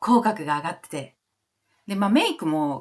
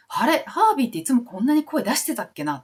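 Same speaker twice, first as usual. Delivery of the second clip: retold surprise; 6 semitones higher than usual. Retelling own surprise at Harvey.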